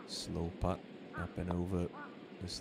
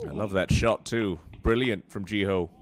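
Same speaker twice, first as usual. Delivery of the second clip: enthusiastic praise; 7 dB louder than usual. Real, not acted. Admiring the shot.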